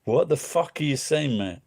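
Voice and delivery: a light mock Glaswegian accent; rough-edged Glaswegian impression. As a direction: toss off a Glaswegian "what are you saying, mate". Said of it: "then you can get the Glaswegian accent".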